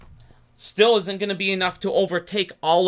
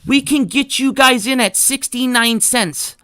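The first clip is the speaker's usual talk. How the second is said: pitching as Adam Aaron; 5 semitones higher, 6 dB louder than usual. Pretend. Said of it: "I'm Adam Aaron and I show them this".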